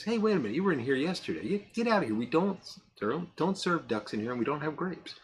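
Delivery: mildly worked-up bartender refusing a customer; exasperated bartender. Acted. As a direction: play an exasperated barman, half in fun. Acted bartender throwing the duck out.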